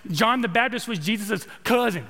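lightly imitated Texas accent. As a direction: borrow a touch of a friend's Texas twang. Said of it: "He said it in that Texas accent".

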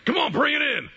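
high, loud playful beckoning; mock hearty call. Pastor jokingly offering prayer after service, mock hearty call. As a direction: call them over with comic eagerness.

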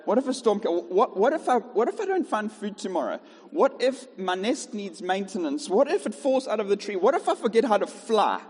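a worried little bird spiralling into panic; a mock-anxious bird working itself up; panicky bird. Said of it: "they're like".

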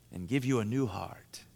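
put-on hushed end in a light Dutch accent; Doctor Krabbendam. Pastor finishing his Bible teacher's saying, hushed Dutch accent. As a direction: drop to a near-whisper, imitating a Dutch teacher. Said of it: "in his deep Dutch accent".

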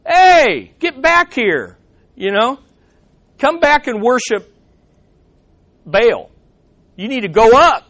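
a gang pressing him to come worship; preacher voicing the youths calling the prophet back; mob calling him back. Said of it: "Maybe they were saying to him".

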